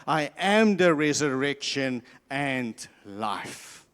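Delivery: slow, solemn and steady; solemn declaration. Retold or imitated. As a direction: declare it calmly and with weight. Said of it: "Jesus actually responds".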